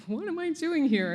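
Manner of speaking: high, amazed disbelief; star-struck newcomer on set, high and amazed. Retold or imitated. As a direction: gasp it out in wonder. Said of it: "I was like".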